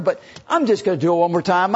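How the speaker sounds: lightly cocky, confident; brushing off her concern. Acted. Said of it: "very cocky".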